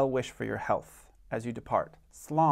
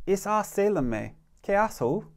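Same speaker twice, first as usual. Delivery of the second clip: higher-pitched first speaker; dialogue read-aloud; 6 semitones higher than usual. Shown as a demonstration. Teacher reading a practice conversation aloud, raised character line. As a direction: lift the pitch for one side of the dialogue. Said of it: "I'm gonna read this conversation again".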